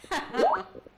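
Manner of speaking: loud possessed laugh, rising; goddess laugh. Acted. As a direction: break into a ringing trance laugh.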